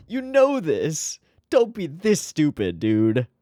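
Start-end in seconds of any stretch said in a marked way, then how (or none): 0.1-1.2 "You know this" slowed, stretching "know"; slow emphatic. Real, not acted. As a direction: drag it out to insist. Says it twice, drawn out.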